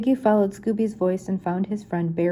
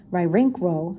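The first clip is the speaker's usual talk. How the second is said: cheerful dog-talk syllables; lightly voiced cartoon dog; Scooby agreeing with Shaggy; slower than usual. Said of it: "Scooby said with a smile".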